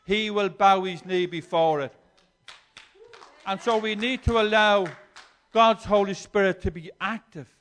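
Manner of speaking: rousing call to let the Spirit act; forceful preaching. Acted. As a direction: declare it with power.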